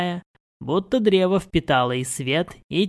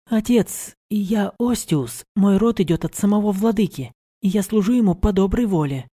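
higher, earnest and firm; young woman voice; 5 semitones higher than usual. A narrator's reading. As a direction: insist proudly on your choice. Mari defends her service.

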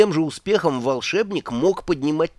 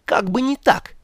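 snapping; 10 semitones higher, 4 dB louder than usual. A narrator's reading. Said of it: "огрызнулась она".

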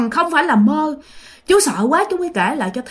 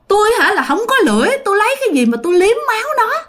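high, rushed mock lament; vừa khóc vừa nói; 10 semitones higher, faster than usual. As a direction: wail the complaint quickly, high up. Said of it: "Vừa khóc vừa nói rằng á là". (than khóc giọng cao, dồn dập)

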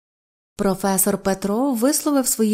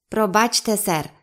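plain reading voice

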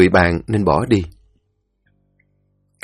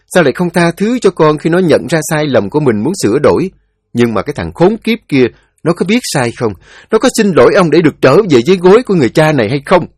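bitter father; 5 semitones higher, 3 dB louder, faster than usual. Acted. Father's bitter rhetorical questions.

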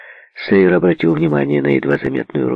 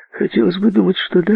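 polite; 11 semitones higher than usual. A narrator's reading. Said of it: "вежливо ответил Сейер".

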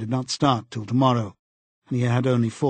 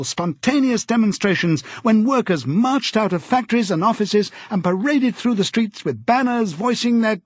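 much higher, louder, triumphant broadcast voice; eager telescreen announcer; 9 semitones higher, 3 dB louder than usual. A narrator's reading. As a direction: trumpet the good news like a state announcer. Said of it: "an eager, youthful voice".

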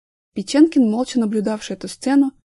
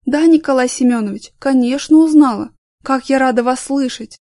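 fawning; 3 semitones higher, 6 dB louder than usual. Acted. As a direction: gush over the client. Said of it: "подобострастному выражению лица".

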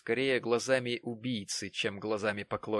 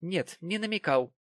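firm cut-off answer, higher; curt, decisive; 7 semitones higher than usual. A narrator's reading. Mary curtly cuts off Jonas. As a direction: snap it shut decisively. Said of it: "отрезала Мэри самым решительным тоном".

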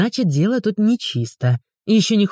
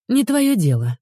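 curt cut-off; 6 semitones higher than usual. A narrator's reading. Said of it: "обрубила Ульяна".

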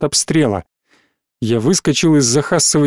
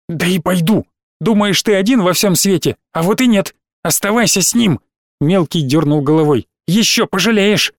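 put-on angry child; 3 semitones higher than usual. Boy storms off angry.

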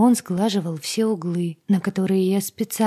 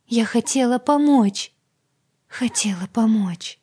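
thought loop; 4 semitones higher, 4 dB louder than usual. Acted. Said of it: "в мыслях, как на повторе".

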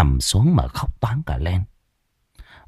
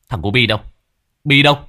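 mild shout; 2 semitones higher, much faster than usual. Acted. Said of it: "Tôi quát".

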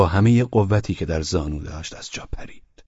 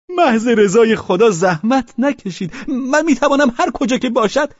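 put-on humble drunk; 7 dB louder than usual. A narrator's reading. Pavel humbly refuses the couch from Velchaninov. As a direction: plead not to be fussed over.

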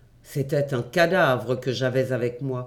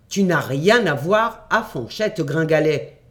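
louder, protesting rival claim; jealous outcry; 3 dB louder than usual. Acted. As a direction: cry out at your cousin. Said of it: "m'écriai-je".

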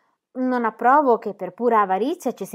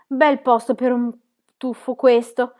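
mildly raised, friendly call; conciliatory shout; 4 semitones higher, 5 dB louder than usual. A narrator's reading. Jim on the beach coaxing the children, conciliatory call. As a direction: call out to win them over. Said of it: "gridò con fare conciliante ai bambini".

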